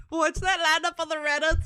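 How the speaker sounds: high, loud, through laughter; amused squeal over a laugh. Real, not acted. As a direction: crack up while saying it. Laughing at own outburst.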